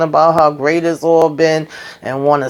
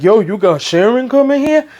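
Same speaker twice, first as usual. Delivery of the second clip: higher-pitched, lightly acted surprise; mock startled question; 7 semitones higher than usual. Cousin to his host about Sharon's arrival, mildly acted surprise. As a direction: ask it high, as a retold startled reaction.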